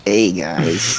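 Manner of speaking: lightly voiced big-ego gamer; a hint of a self-important gamer greeting; impression of big-ego guy. Magic player greeting the club, lightly put-on voice. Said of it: "can you do an impression of him?".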